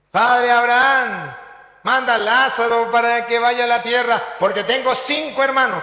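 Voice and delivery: lightly acted plea from afar; pleading rich man. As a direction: call out to Abraham, begging.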